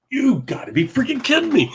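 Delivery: high, laughing "you gotta be kidding me"; a high amazed laugh at the trick; laughing disbelief. Retold or imitated. Retelling disbelief at magic trick.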